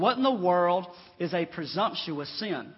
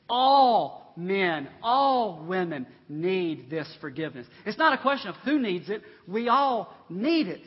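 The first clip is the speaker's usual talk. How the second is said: raised pitch, weighty pulpit emphasis; emphatic preaching; 7 dB louder, slower than usual. Acted. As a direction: preach it with punched, drawn-out key words. Preaches at full force.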